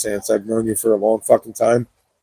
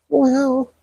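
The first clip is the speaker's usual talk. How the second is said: surprised; 13 semitones higher than usual. Real, not acted. Sees hearts on video.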